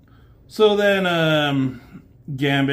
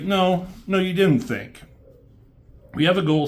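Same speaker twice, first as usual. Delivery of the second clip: higher and louder, a mock teacher's rebuke; imitated stern scolding; 7 semitones higher, 4 dB louder than usual. Xavier scolding Cannonball for whining, in a mock stern rebuke. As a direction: cut him off like a fed-up mentor, half-acted.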